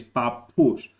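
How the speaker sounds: papous with a prolonged p; papous, lean on a lengthened p; Cypriot pronunciation. Shown as a demonstration. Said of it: "So it sounds like this".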